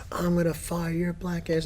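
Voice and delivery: lightly voiced whispered threat; mock whispered threat. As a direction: whisper the passenger's threat mockingly. Retelling passenger threatening driver.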